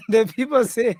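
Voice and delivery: laughing. Real, not acted. Amused relaying listeners' complaints on air.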